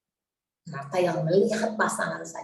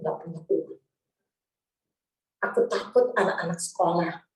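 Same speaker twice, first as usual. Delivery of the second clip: tearful prayer; 2 semitones lower than usual. Retold or imitated. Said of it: "Saya cuma nangis bilang ke Tuhan".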